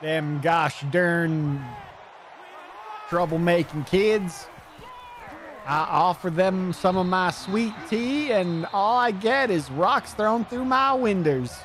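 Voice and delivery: put-on a cranky Southern homeowner yelling about vandals, in a Southern accent; grumpy Southern old man. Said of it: "you're doing a Southern accent".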